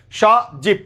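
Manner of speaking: স জীব as two beats, "sho, jib"; two syllables with ব tucked into the second; final consonant joined on. Shown as a demonstration. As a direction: split after স, closing ব onto জী. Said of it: "জয়ের সাথে উচ্চারণ করে ফেলবে".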